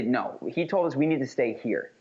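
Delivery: statement closing with "here" dropping in pitch; downward final intonation. Shown as a demonstration. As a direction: let "here" fall at the end. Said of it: "there's a downward intonation or a downward inflection".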